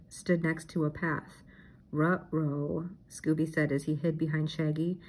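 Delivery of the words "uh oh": scared dog voice. A narrator's reading. Scooby hides behind Shaggy.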